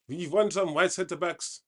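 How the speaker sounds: a deliberately bad German accent for a joke; hammed-up fake German accent; rubbish German accent. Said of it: "That's a rubbish German accent".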